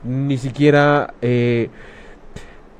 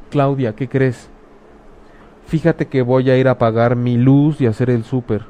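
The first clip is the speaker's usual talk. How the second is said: caring friend offering. Shown as a demonstration. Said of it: "de pronto".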